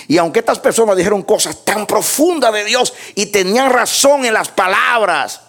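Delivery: high, ringing pulpit argument; emphatic preaching. Real, not acted. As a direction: drive the point home from the pulpit.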